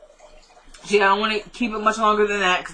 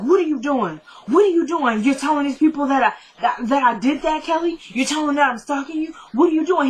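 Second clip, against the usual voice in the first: mock angry, pitched higher and rising; imitating a man accusing Kelly in a rage; retold angry confrontation; 5 semitones higher than usual. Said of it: "He's like".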